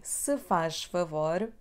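"se faz favor" slowly, stress on "se", rising; slow demo. Shown as a demonstration. Teacher models the polite variant slowly. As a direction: say it slowly for learners. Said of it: "you can also say".

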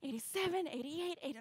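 high-pitched count of laps; re-enacted eager tally; excited counting. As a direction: tick off each number with rising hope. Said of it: "it got really exciting".

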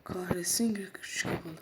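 hushed "Kahretsin"; whispered curse. Real, not acted. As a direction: curse under your breath. Whispered curse while sneaking. (fısıltıyla küfür)

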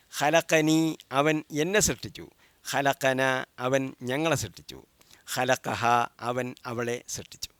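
measured chant for pupils to repeat; recitation drill. Shown as a demonstration. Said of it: "നിങ്ങളത് ആവർത്തിച്ച് പറയണം". (ആവർത്തിക്കാനുള്ള പാരായണം)

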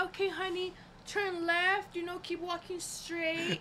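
gentle directions. Retold or imitated. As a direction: give directions like a kindly aunt. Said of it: "the nice thing".

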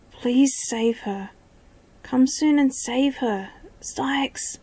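slow, tearful plea, rising; desperate pleading. Acted. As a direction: beg through tears. Desperate prisoner begging, tears.

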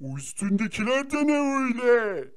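hushed unvoiced question; whisper. A friend whispering, curious about the flashy armour. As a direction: whisper it like a secret.

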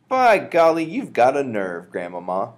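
amazed. Acted. Boy amazed at grandmother.

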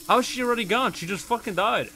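can't believe what just happened; exasperated disbelief; incredulous. Real, not acted. Disbelief teammate died.

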